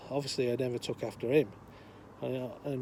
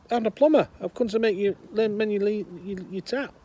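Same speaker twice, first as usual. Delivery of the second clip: higher, loud, stumbling over words; plumber calling louder; 7 semitones higher, 7 dB louder than usual. Acted. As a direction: repeat it through the door, losing patience. Plumber repeats through door.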